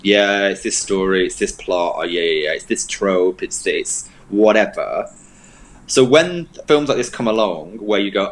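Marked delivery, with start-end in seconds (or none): 0.0-5.1 imitating a jaded, seen-it-all viewer; desensitized. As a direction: reel it off as if unimpressed. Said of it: "I'm a bit desensitized by these films".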